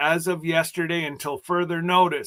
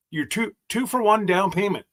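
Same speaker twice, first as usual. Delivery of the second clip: tongue-tied stumble; 5 semitones higher than usual. Real, not acted. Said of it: "I'm having a hard time with this English language".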